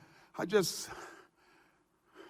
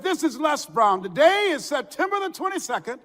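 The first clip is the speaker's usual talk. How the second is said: a hint of on-air DJ announcing; lightly voiced broadcast to listeners; radio announcement; 3 semitones higher than usual. DJ telling his radio audience he was fired, lightly voiced on-air read. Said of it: "I opened up the microphone".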